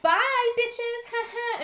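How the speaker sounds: high, loud gloating send-off; mock gleeful taunt. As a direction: crow it over your shoulder, hammed-up. Retold gleeful taunt while escaping.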